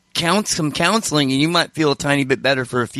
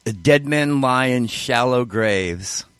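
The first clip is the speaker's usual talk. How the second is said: slow, solemn recitation; reciting song lyrics; 2 semitones lower, slower than usual. Real, not acted. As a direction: read each line slowly and gravely. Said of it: "I wrote a song once".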